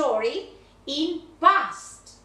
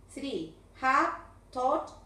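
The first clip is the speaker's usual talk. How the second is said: slow model read; much slower than usual. Shown as a demonstration. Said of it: "teacher models verb forms".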